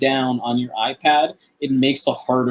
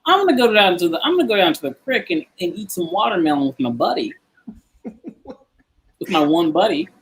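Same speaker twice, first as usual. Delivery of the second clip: higher-pitched Southern twang; Southern accent; 6 semitones higher than usual. Acted. South Carolina native demonstrating his accent talent, Southern accent. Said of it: "Southern accent is number one".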